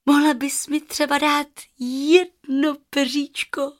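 put-on little girl asking. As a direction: ask sweetly for one feather.

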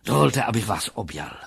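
a touch of rapt professional delight; enraptured psychologist. Acted. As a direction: savour it with a connoisseur's wonder. Voices the psychologist's admiring speech.

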